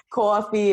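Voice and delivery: "coffee" with a broad aw in the first syllable; Long Island pronunciation. Shown as a demonstration. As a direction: say "coffee" as CAW-fee. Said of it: "those words are always gonna come out that way".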